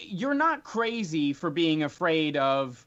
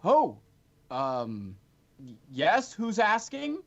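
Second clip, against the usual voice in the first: Matrius voice; 3 semitones higher than usual. Acted. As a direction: caught off guard mid-work. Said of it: "turns to you and says".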